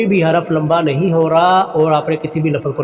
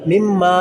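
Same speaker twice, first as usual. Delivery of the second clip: मिम्मा with the final maa held; lengthened second meem. Shown as a demonstration. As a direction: recite मिम्मा, stretching maa. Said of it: "दूसरे मीम को लंबा करेंगे". (मिम्मा का 'मा' लंबा)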